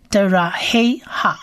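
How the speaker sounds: 的ra he ha said slowly in voice; slow blend. Shown as a demonstration. Teacher sounds the word out slowly. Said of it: "整个字发音起来".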